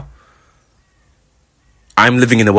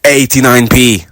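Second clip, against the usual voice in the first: excited exclaim; 5 semitones higher, 7 dB louder than usual. Real, not acted. Amazed at bargain price.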